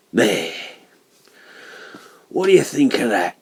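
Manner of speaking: loud, high proud exclamation; proud stonemason. Acted. Stonemason showing his work to the narrator, proud and loud. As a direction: show off the finished stone proudly. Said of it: "with an air of evident pride".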